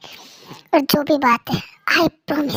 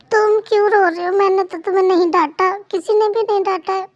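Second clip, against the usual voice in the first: put-on higher, concerned young wife; lightly higher worried wife; 3 semitones higher than usual. Wife asking husband why he is crying, concerned higher voice.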